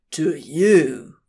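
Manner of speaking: mild, understated incredulity; in disbelief. A narrator's reading. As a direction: question it in disbelief. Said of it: "Crowley said in disbelief".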